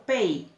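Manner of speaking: "pei" said as one syllable, e gliding into i; diptongo en una emisión. Shown as a demonstration. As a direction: say "pei" slowly in a single puff of air. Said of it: "Con una sola vez que largue aire". ("pei" en una sola sílaba, alargado)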